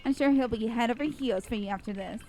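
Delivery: loud, sneering brat voice; loud taunting brat. Acted. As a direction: taunt her, loud and snide. Bratty girl taunts loudly.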